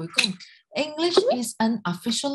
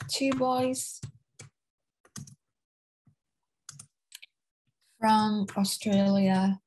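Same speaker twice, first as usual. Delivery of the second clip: slow, word by word with long pauses; slow dictating pace; slow dictation; much slower than usual. Shown as a demonstration. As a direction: dictate it slowly for the class to copy. Teacher dictating answer while writing.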